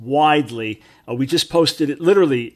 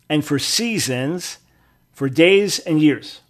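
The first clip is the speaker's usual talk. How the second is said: scripture reading. Real, not acted. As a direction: read the verse out deliberately, drawing out key words. Reads scripture aloud from King James.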